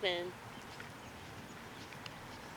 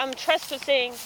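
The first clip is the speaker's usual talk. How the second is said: put-on kid voice; 4 semitones higher, 6 dB louder than usual. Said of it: "talking in my kid voice".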